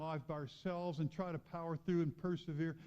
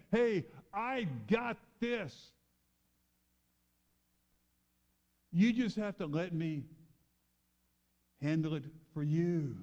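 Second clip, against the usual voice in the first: voicing God; 3 dB louder than usual. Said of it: "That's God saying".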